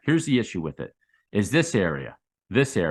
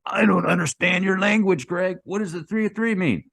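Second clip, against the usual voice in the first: higher-pitched voice imitating a puzzled viewer; mock confused follower; 9 semitones higher, 3 dB louder than usual. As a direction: play a baffled newbie asking for help. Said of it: "So the guys ask me".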